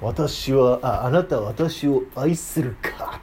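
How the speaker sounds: put-on slow, stiff old-fashioned lordly tone; a mock samurai lord asking; solemn period-drama voice. Shown as a demonstration. Teacher parodies a stiff Jesus for the class, slow and grand. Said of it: "どんな話し方しとったと思う".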